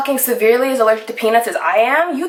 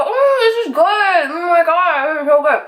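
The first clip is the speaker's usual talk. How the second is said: mock delight; 5 semitones higher than usual. Relishing the chips in retelling.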